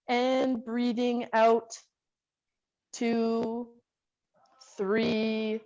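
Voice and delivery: slow, drawn-out instructor count; guided breathing count. Real, not acted. Instructor leads class in three breaths, slow guided count. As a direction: pace each word to a long breath.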